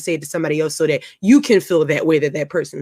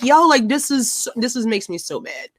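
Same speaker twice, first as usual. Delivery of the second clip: retold rant; 6 semitones higher, slower than usual. Retelling rant to husband.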